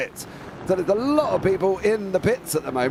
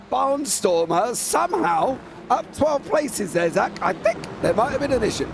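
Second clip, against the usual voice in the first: brisk live race call; motorsport commentator. Acted.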